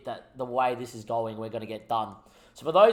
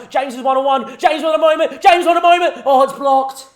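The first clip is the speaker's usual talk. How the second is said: rising, loud commentary yell; screaming commentator at a one-on-one; excited shout; 10 semitones higher, 12 dB louder than usual. Real, not acted. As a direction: build the excitement then let it drop. Striker one-on-one, live game.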